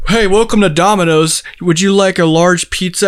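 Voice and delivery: sunny fake phone-menu voice; automated phone voice. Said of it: "automated system".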